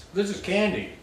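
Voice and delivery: high delighted exclaim; excited. Real, not acted. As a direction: squeal it like a treat. Delighted by sweet fruit.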